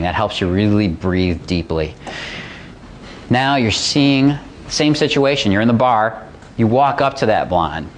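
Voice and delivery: calm visualization; guided visualization. Acted.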